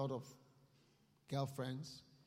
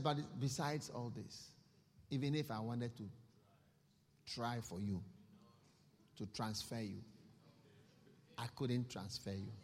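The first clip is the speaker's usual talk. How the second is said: lower, softer Abraham, firm and final; Abraham's reply; 5 semitones lower, 4 dB quieter than usual. Acted. Abraham telling the rich man he cannot help: lower, softer. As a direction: let him down gently, lower.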